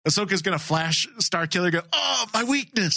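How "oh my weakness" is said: high-pitched melodramatic wail; overacted video-game death cry; mock anguish. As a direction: cry out in hammy defeat. Mock Starkiller reacting, joking skit.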